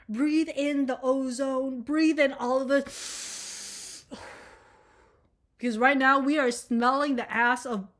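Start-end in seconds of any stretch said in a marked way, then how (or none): 0.1-2.8 slow guided breathing. Shown as a demonstration. Guiding viewers to breathe. 2.9-4.3 long exaggerated breath out. Shown as a demonstration. Demonstrating a breath out.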